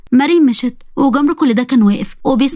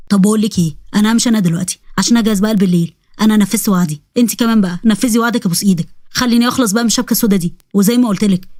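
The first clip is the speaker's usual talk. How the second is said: a lightly lower, sly jinn voice; jinn boy voice; 3 semitones lower than usual. Acted. Jinn Jamr pleading with Sara to keep her promise, lightly lower voice. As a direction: play the jinn bargaining with the girl.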